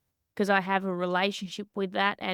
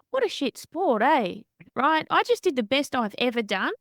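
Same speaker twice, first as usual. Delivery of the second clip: higher and louder, a mock-exasperated exclamation; incredulous outburst; 5 semitones higher, 4 dB louder than usual. A boxer tells her coach, in disbelief, what a shit sport it is. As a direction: throw it back at the coach in disbelief.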